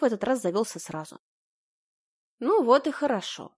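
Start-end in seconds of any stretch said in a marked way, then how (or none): none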